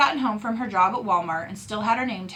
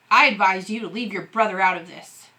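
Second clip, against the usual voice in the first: cold; 5 dB louder than usual. Acted. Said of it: "his dad said coldly".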